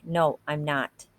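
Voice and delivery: slow, understated angry denial; a touch of anger, said slowly; mild anger. Acted. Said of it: "toward him angrily".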